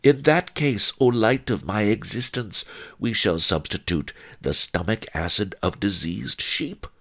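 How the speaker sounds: high-starting voice, calmly settling. A narrator's reading. One-Eyed Wong offering his wife a substitute, calm. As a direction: reassure your wife with unruffled calm. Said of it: "One-Eyed Wong said calmly".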